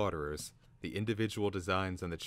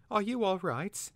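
concerned; 14 semitones higher, 5 dB louder than usual. A narrator's reading. Twig checks on fallen Slaughterer.

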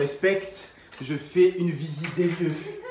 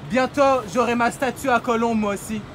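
put-on Quebecois accent; 3 semitones higher than usual. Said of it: "Je parle avec un accent québécois".

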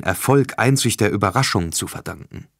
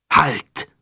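commanding shout; 5 semitones higher than usual. A narrator's reading. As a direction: boom it through the room. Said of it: "Die Stimme dröhnte". (dröhnender Befehl)

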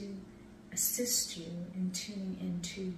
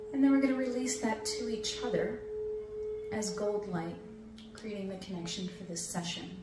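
airy breathy mystical healer. Acted. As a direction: breathe them gently into calm. Leads a breathing meditation.

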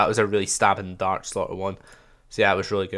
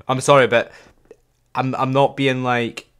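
giggling sorry, louder; laughing apology; 3 semitones higher, 5 dB louder than usual. Real, not acted. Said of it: "I don't know why I did that".

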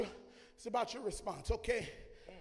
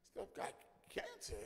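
whisper; 13 semitones higher, 10 dB quieter than usual. Retold or imitated. Fearful whispered aside.

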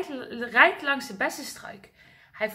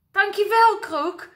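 cheering; 6 semitones higher, 6 dB louder than usual. Acted. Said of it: "juicht giraf".

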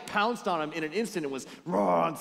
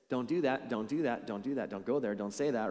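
low, repetitive list of prohibitions; mock scolding; 4 semitones lower than usual. Church leading with truth to a sinner, mock scolding. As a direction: rattle off the don'ts in a lowered voice. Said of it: "it comes across like this".

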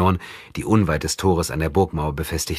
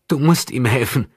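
changed, cold tone; 8 semitones higher, 4 dB louder than usual. A narrator's reading. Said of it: "in einem veränderten Ton".

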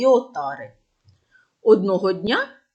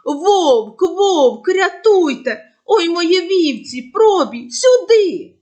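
loud, high panicked calling; desperate cry for help; 7 semitones higher, 5 dB louder, slower than usual. Acted. Boy calling the shepherds to a real wolf, loud panicked yelling. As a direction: yell for help as the sheep are attacked. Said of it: "зачувши крик".

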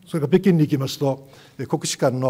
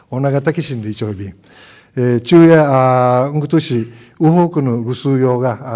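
greeting the press in Uchinaaguchi, louder and proud; Okinawan language; 7 dB louder than usual. Shown as a demonstration. Governor greeting the assembled press in Okinawan, louder. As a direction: speak it in full Okinawan, projecting to the room. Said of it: "内縄口で喋ってみますので".

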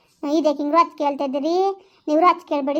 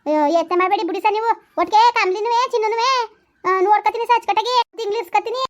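pitched up, chatty village woman; high village woman voice; 5 semitones higher than usual. Acted. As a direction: lift the voice into a sing-song rustic woman. (ಎತ್ತರದ ಧ್ವನಿಯ ಹಳ್ಳಿ ಹೆಂಗಸು)

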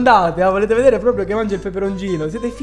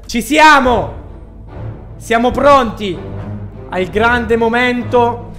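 dramatic hype; 4 dB louder, slower than usual. Real, not acted. Building up the big moment.

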